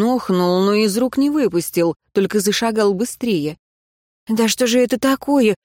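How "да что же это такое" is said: higher, exasperated question; indignant outburst. Acted. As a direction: protest at being carried. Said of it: "возмутилась".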